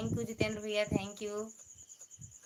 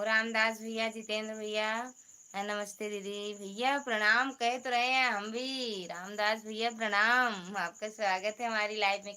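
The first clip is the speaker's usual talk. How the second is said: louder, fast cheerful greeting; loud welcome; 5 dB louder than usual. Real, not acted. Host greets viewer Ramdas loudly on live. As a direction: call out a hearty welcome.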